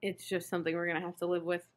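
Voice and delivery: talking through hiccups. Real, not acted. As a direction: speak with hiccups interrupting. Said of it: "I'm not hiccupless".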